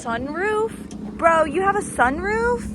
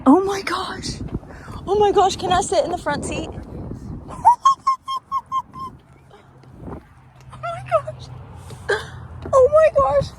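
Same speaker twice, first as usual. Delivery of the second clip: excited; 4 semitones higher, faster than usual. Real, not acted. Excited over dream car.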